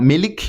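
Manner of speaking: 'milk' said as 'mi-lik' with a clear L; light L, wrongly. Shown as a demonstration. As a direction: put a little vowel after the L in 'milk'.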